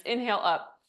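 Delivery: breathless, winded cues; out of breath. Real, not acted. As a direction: talk while out of breath. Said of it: "I'm out of breath".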